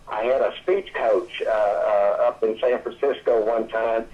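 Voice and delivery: ordinary talk, nothing marked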